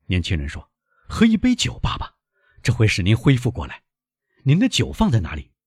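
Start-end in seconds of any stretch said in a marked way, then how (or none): 1.1-5.5 put-on high, urgent young man; anxious young son. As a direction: urge your faint father in a raised pitch. Anxious son tends collapsing father.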